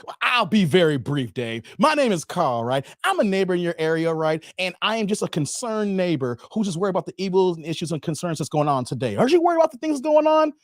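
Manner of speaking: lightly voiced earnest canvasser; door-to-door preacher. Concerned neighbor pitching to Dave, lightly earnest preacher. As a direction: recite the doorstep pitch, concerned. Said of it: "that's a J W line I gave you guys".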